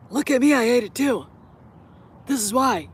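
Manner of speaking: lightly put-on show-off hater voice; virtue-signalling hater. Vlogger mimicking haters who virtue signal, mildly mocking. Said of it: "so they can virtue signal".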